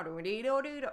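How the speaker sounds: exaggerated up-and-down melody on "do, do, do"; sing-song intonation. Shown as a demonstration. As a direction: bounce "do" up and down like a foreign tune. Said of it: "we don't have, like, Spanish, English".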